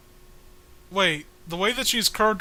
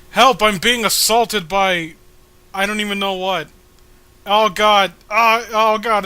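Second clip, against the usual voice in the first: hammed-up cry for help; 3 semitones higher, 8 dB louder than usual. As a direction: overplay the victim's disgust. Voicing the assaulted character.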